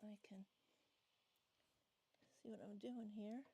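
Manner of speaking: talking around a bag held in the teeth; screws in mouth. Real, not acted. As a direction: mouth full, words muffled. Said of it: "I have the bag of screws in my mouth".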